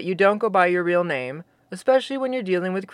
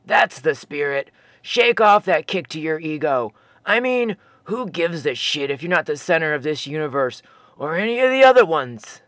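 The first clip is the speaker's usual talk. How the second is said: a lightly lowered, laid-back giant voice; easygoing Sasquatch; 3 semitones lower than usual. Acted. Fosby encouraging Jeremy to take the hit, easygoing. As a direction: shrug off the ego with a grin.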